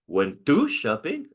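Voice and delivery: "Went to shopping?" slow with a rising question tune; echo question. Shown as a demonstration. Teacher echoing the student again with a questioning rise. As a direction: repeat it back, rising. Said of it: "you say the same with intonation".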